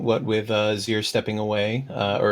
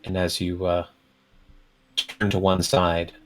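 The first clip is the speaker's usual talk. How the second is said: scene narration; 3 semitones lower than usual. A narrator's reading. Game master's scene setting.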